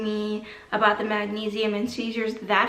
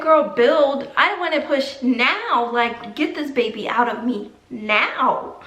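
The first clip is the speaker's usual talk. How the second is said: retold impatient demand; slower than usual. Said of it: "I'm thinking in my head".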